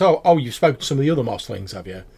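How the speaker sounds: tip off the traveller with a wink; amused merchant voice; knowing goblin warning. Acted. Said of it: "he says".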